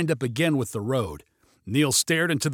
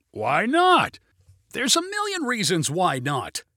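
high, insistent exchange; raised-voice argument; 6 semitones higher than usual. A narrator's reading. Pilot and passenger argue over landing, raised voices. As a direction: argue it pitched up. Shouted argument in small plane.

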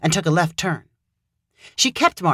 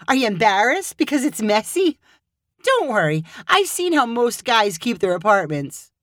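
higher, playful reassurance; Hannah's voice, teasing; 5 semitones higher than usual. Acted. Hannah teasing Caleb about a messy apartment. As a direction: tease him gently.

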